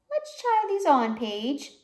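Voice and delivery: high, bright coaxing; coaxing shop lady. Acted. Shop lady handing a girl her new glasses, bright coaxing. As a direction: coax the child gently but cheerfully.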